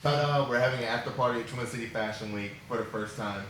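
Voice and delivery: talking with food in mouth; mouth full. Real, not acted. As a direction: talk through a mouthful. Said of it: "Sorry to talk with my mouth full".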